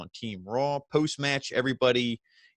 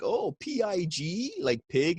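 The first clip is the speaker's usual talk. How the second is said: puppet voice; 7 semitones higher, slower than usual. Retold or imitated. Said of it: "And Huskus is like".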